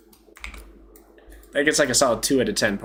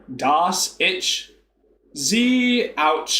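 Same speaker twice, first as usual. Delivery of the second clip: exaggerated Texan German, "ich" as "itch"; Texas accent; 5 semitones higher, much slower than usual. Shown as a demonstration. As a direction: mangle the German in a Texas drawl. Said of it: "I'll put, like, a Texas accent on".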